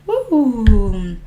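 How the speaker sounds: long falling "woo"; excited woo. Real, not acted. Streamer hyping up the livestream, excited falling woo. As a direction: let out a drawn-out woo. Hyped livestream greeting opens.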